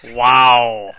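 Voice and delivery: surprised. Real, not acted. Reacts to robot intro.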